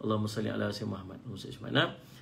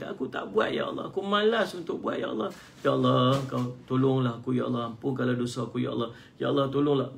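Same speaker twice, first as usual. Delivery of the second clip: humble pleading prayer. Shown as a demonstration. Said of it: "Perendah diri kita".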